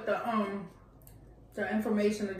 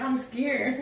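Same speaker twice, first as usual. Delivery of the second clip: laughing imitation; 4 dB louder than usual. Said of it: "She said".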